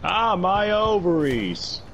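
slow, hammed-up wail; mock pained cry. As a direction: ham up a pained moan. Comic pain cry.

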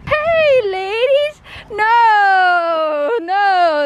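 high, loud cry to the dogs; excited dog voice. Real, not acted. Fending off her jumping dogs with a high excited cry. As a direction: yelp as they pile on.

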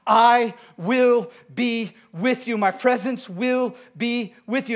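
loud, very slow, stretched words; preacher repeating God's promise; slow emphatic promise. Acted. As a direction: savour each word of the promise.

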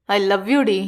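low, emphatic "I love you"; firm confession. A narrator's reading. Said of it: "என்றான் அழுத்தமாக".

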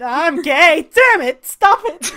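high, loud flustered outburst breaking into laughter; hammed-up high-pitched fluster; flustered Salvador. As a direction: blurt it out high and scold yourself. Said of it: "Salvador's like".

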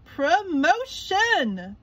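high, slow, drawn-out cheer; excited SpongeBob. A narrator's reading. SpongeBob dreaming of his promotion, slow high cheer. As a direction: savour the word like a prize. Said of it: "he said proudly".

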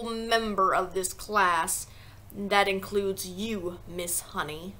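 measured tyrant warning the whole room; menacing headmistress. Acted. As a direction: draw the words out with heavy menace.

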